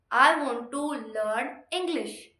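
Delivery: slow lead-up, then "English" set apart; slow down and lean on "English"; stress on ENGLISH. Shown as a demonstration. Teacher demonstrating vocal emphasis, slow with weight on "English". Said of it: "I emphasized on this word through my vocals".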